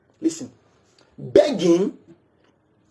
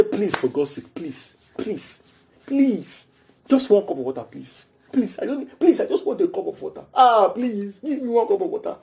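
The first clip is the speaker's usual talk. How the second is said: a mock desperate plea, sliding softer; begging voice; 5 dB quieter than usual. Shown as a demonstration. Preacher demonstrates begging for water, mock desperate. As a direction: plead pitifully for water. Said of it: "That's begging".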